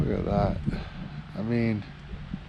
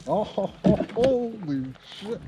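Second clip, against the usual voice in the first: excited; 6 semitones higher than usual. Real, not acted. Landing a big fish.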